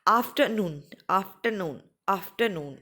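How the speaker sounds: afternoon with a long, falling NOON; stress on third syllable. Shown as a demonstration. Teacher drilling third-syllable stress, stressed on the last syllable. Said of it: "वो डलेगा third के ऊपर".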